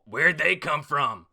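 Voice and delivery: high, loud, slow shocked cry; loud slow astonished yell; shocked Queen. Retold or imitated. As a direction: gape like a villain caught off guard. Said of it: "famous Queen face fault".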